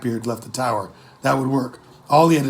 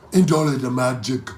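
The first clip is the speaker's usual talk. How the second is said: pirate crewman voice. Acted.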